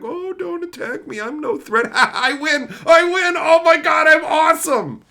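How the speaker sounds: high, loud gloating with a laugh; mock gloating crybaby. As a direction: ham up the sneaky winner's glee. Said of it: "being like".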